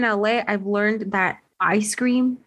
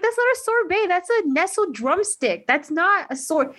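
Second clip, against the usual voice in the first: exasperated correction; 7 semitones higher than usual. Retold or imitated. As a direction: set them straight, a bit huffy. Correcting cousins about sorbet.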